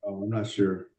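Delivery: muffled, distant and quiet; faint voice through a bad mic; into a cup. Real, not acted. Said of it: "you're talking into a cup from far away".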